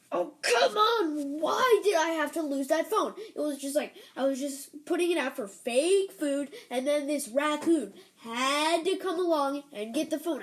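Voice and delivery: exasperated, hammed-up complaint; very mad scientist. Mad scientist moaning over his lost phone, acted exasperation. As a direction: play a put-out scientist, stretching the opening wail. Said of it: "he was very mad".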